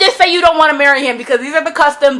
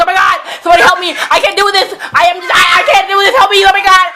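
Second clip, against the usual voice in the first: higher, fast mock panic; 5 semitones higher, faster than usual. Retelling Feyre's panic at the wedding, fast mock panic. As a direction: ham up a bride falling apart. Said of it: "She's like".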